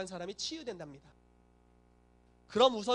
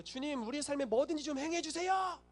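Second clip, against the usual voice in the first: high-pitched, wailing mock plea; pleading believer; 6 semitones higher than usual. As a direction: beg the Lord in an exaggerated cry. Acted pleading prayer of believers.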